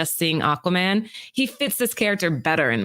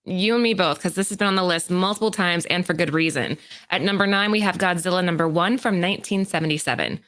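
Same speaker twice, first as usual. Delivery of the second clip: even, presenter-style read; scripted list read. Acted. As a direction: read out the countdown entry to the audience. Reads prepared list segment.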